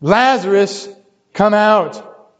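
restrained calling-out, drawn out; mild mock yell. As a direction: imitate a yell without really shouting. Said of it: "He's yelling out".

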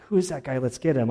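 David ready to punish the thief; fired up. Retold or imitated. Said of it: "is all, like, fired up".

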